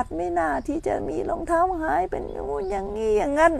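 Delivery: high-pitched imitation of a complainer; mock grumbling. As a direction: fuss like an indignant temple visitor. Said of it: "ก็โวยวายเลยค่ะ".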